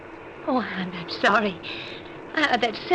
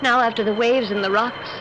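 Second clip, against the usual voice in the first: inner narration. A narrator's reading. Wife lying awake recalling the drowned first wife, hushed.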